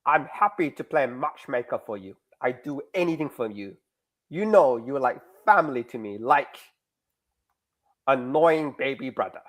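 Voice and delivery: lightly put-on Russian accent; horrible Russian accent. The girl offering to play matchmaker, Russian accent. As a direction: offer help in a loosely attempted Russian accent. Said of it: "I do a horrible Russian accent".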